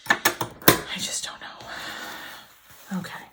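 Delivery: slow, breathy whisper, worn out; very slow, spent whisper of frustration; defeated whisper. Real, not acted. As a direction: let it slip out in a tired hush. Frustrated sewing, giving up.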